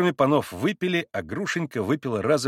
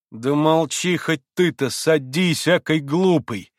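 louder, irritated scolding; vexed snapping; 5 semitones higher, 5 dB louder, slower than usual. A narrator's reading. Grushenka tells Mitya to sit down, snapping crossly. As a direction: snap at him to shut up. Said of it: "Со злобной досадой огрызнулась на него Грушенька".

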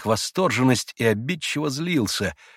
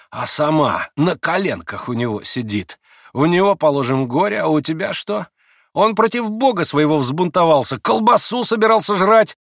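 higher, louder sneering man; mocking Rakitin; 7 semitones higher, 6 dB louder than usual. A narrator's reading. Rakitin taunts Grushenka, sneering and loud. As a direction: tease her with contempt.

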